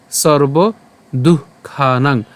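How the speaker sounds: সর্বদুঃখানাং with an audible breath after দু; careful Sanskrit pronunciation. Shown as a demonstration. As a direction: stretch সর্বদুঃখানাং syllable by syllable, breathing out at the দুঃ. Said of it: "এর উচ্চারণটা কেমন হবে?".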